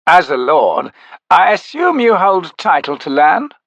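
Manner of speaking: haughty councilman. A narrator's reading. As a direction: press the lord about his lands. Orr questions Rake haughtily.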